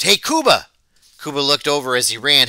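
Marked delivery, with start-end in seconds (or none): 0.0-0.7 calling out. A narrator's reading. Calling out to running boy.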